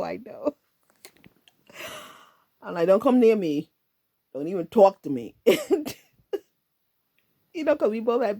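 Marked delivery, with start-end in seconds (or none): 2.9-5.3 mock brush-off. Teen pushing boy away.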